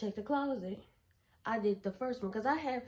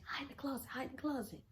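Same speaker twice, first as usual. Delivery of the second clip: unvoiced hurried whisper; 4 semitones higher, 7 dB quieter, faster than usual. Whispering to her friend to hide, unvoiced. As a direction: hiss it so nobody hears.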